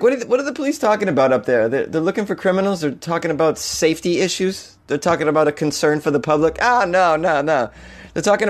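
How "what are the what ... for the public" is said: mock naive wonder. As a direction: play dumb and amazed. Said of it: "You're like".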